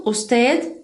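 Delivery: "usted" ending in a light d; soft d usted. Shown as a demonstration. Teacher showing students the final d of "usted". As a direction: finish "usted" with a small soft d. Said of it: "Eu posso falar como um dezinho".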